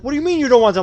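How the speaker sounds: high, loud disbelieving mock bully; loud high-pitched mock disbelief; incredulous bully. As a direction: squeal the outrage like a baffled bully. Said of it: "They're like".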